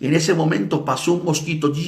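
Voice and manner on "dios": shouting. Retold or imitated. Professor's last yell before choking.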